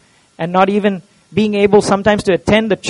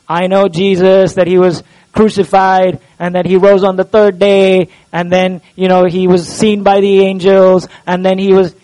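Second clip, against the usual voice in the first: lightly mimicked reciting of known facts; a touch of droning, by-the-book recitation; mock rote recital; 2 semitones lower than usual. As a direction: list it off evenly, as if by rote. Mimics mere assent to facts.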